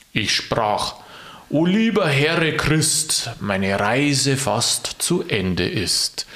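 very slow, swooping declamation; poem recitation. Acted. Knecht Ruprecht answering the Christkind, slow solemn recital. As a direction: stretch each verse with big melodic swings.

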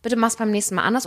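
calm, measured example feedback; reasonable tone. Acted. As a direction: give mild criticism without attacking. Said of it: "in einem vernünftigen Ton gesagt". (ruhiger, vernünftiger Ton)

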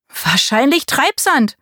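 calling out. A narrator's reading. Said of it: "rief Marie".

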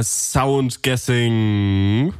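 tentative. Real, not acted. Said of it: "wir nennen es".

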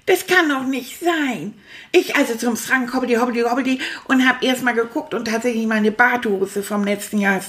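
put-on chatty, cheeky puppet rat rambling to the kids; stuffed rat puppet. Stuffed rat Manfred grumbles to his young viewers, in a puppet voice. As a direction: play the grumpy little rat who loves to talk.

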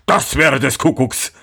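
amazed miller in a put-on voice; astonished exclamation. A narrator's reading. Miller hears of hidden salad, exclaiming in amazement. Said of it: "rief der Müller".

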